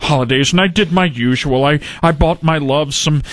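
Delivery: a hint of a sleazy lounge guy; low sleazy voice. Norm's low sleazy voice runs.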